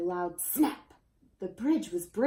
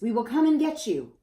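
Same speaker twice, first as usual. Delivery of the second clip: louder promise; reassuring call; 4 semitones higher, 6 dB louder than usual. A narrator's reading. Citizens promise the children help, a lighter shout. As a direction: call out to calm them. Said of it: "shouted the citizens".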